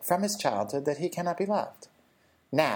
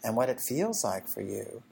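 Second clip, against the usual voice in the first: empathetic; 3 semitones lower than usual. Retold or imitated. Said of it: "so what I do is I go".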